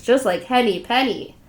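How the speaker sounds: plain reading voice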